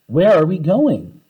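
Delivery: high anxious complaint; worried plea. Acted. Kids swept up the stem, anxious plea. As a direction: plead in weary alarm. Kids rushed upward, weary.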